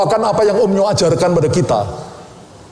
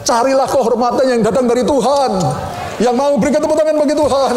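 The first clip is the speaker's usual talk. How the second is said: preaching shout; 4 semitones higher than usual. Real, not acted. Preaching climax.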